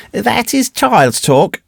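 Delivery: put-on slow, high-pitched child's rebuke; indignant little boy. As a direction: correct the grown men slowly, high in pitch. Boy rebukes the taunting man.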